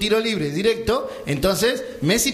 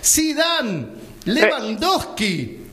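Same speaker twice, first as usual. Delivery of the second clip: higher-pitched, emphatic comic list; dramatic roll call; 4 semitones higher, slower than usual. Acted. Storyteller listing the absurd crowd in the wall, dramatic roll call. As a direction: announce each name like an astonishing revelation.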